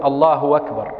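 أكبر joined with a w sound, allahu wakbar; hamza as waw. Shown as a demonstration. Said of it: "كإبدال الهمزة واوا". (إبدال همزة أكبر واوًا)

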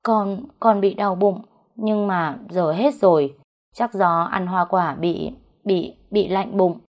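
slow, faltering excuse; hesitant, stumbling over repeated words; hesitant answer. Acted. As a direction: stammer out a halting excuse. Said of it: "tự dưng im bặt một lúc rồi đáp".

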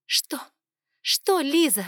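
loud, high furious echo; angry retort. Acted. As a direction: throw his words back, shouting. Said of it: "heroine snaps back angrily".

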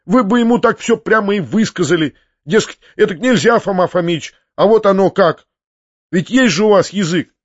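high-pitched, impassioned urging; heated. A narrator's reading. Nephew urges peasants to stand up to Foma, heated. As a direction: press them hotly to speak up. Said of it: "закричал я в запальчивости".

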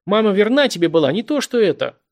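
shouted high and loud, near tears; tearful shout. A narrator's reading. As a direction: shout it, ready to cry. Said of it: "кричит там". (срывающийся крик сквозь слёзы)

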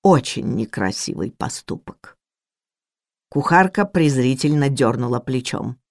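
usual speaking voice

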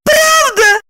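high joyful question; light up with delight; overjoyed. A narrator's reading. Lipochka delighted Roman forgives her. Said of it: "обрадовалась Липочка".

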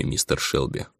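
breathy whisper from the darkness; hushed old woman. Acted. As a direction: let it sink into a whisper. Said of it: "произнёс мрак". (шёпот старухи из мрака)

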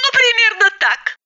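chirpy high voice. Acted. Roza arriving, chirping high to the women. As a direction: chirp like a bubbly woman. Roza's voice.

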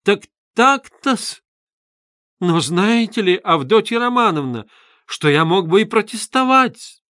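high, loud, rattled threat; flustered outburst. A narrator's reading. Luzhin losing his footing, blustering high and loud. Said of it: "потерявший теперь нитку".

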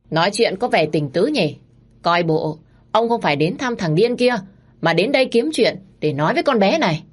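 jealous accusation. Acted. Jealous wife accuses husband.

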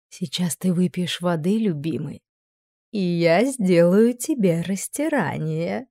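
queen purring seduction at her husband; breathy, seductive. A narrator's reading. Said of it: "с придыханием произнесла Алара".

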